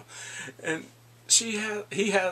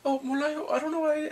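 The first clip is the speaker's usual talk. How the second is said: playing careless; 10 semitones higher than usual. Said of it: "she's playing, like, careless".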